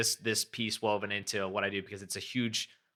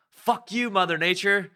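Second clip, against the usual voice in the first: much higher, louder angry yell; angry curse at nature; 10 semitones higher, 6 dB louder than usual. Retold or imitated. Surfer's inner voice cursing the waves, angry yell. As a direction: yell it at the ocean like it wronged you. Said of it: "then the anger starts kicking in".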